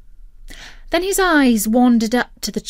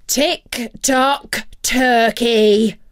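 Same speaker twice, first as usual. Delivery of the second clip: slow, louder angry call of his name; 3 semitones higher, 5 dB louder, much slower than usual. Acted. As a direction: scold him from below. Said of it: "came an angry voice from below".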